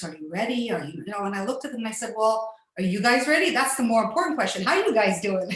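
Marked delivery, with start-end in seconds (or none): 0.0-1.0 lightly voiced serious doctor, lower and subdued. Doctor checking before surgery, imitated seriousness. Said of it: "they were very serious". 2.2-5.5 lightly teasing, quick retold banter; joking. Patient joking with the surgeons before surgery, playful. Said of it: "I'm joking and laughing with them".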